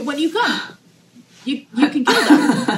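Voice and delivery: high and loud, cracking up; laughing retold plan. Daughter quoting mom handing her the iguana job, laughing. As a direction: push the words out through rising laughter.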